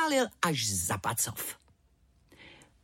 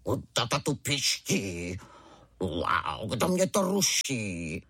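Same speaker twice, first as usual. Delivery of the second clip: slow, lowered mock tiger roar; a hint of a gruff young tiger; little tiger roaring like his father; 6 semitones lower, slower than usual. A narrator's reading. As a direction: play a cub trying to sound like his dad. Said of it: "zařval divné jako tatínek".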